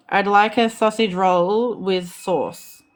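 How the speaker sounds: slow, measured model phrase; demonstrating for repetition. Shown as a demonstration. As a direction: say it slowly for learners to copy. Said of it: "tell us what to say and we gotta repeat after you".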